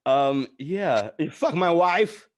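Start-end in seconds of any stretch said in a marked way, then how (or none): 1.2-2.3 slow, louder, higher repeat of the gag; a touch of a hammed-up husband; mock accusing line. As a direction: relish the punchline once more. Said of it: "pointing at his own dick going".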